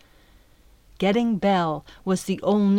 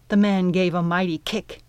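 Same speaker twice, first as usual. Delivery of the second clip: ordinary delivery, nothing marked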